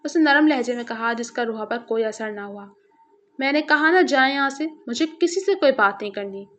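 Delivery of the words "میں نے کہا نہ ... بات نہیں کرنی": angry refusal. Acted. Rooha sends Zargham away from her door, mildly angry. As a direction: brush him off with mild anger. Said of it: "وہ برہمی سے گویا ہوئی".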